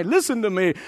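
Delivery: ordinary talk, nothing marked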